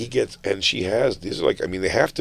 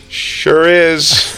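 sultry voice; 5 semitones higher, 5 dB louder than usual. Retold or imitated. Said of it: "she had a very sultry voice on".

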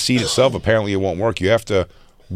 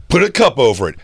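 influencer impression; 4 semitones higher than usual. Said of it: "he's like".

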